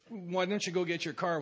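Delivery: a courteous ask, not an order; phrase "go get your car" as a gentle question; polite request. Retold or imitated. The sponsor asking nicely what he never asked, polite request. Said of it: "he wouldn't ask me".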